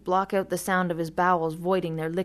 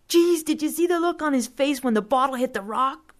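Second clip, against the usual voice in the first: high, loud, laughing mockery; snorting with laughter; 6 semitones higher, 5 dB louder than usual. A narrator's reading. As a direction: crack up while asking it. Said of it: "Vaco snorted".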